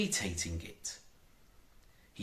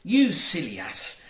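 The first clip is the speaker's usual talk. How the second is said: lovingly; 7 semitones higher, 5 dB louder than usual. A narrator's reading. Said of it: "said Tinker lovingly".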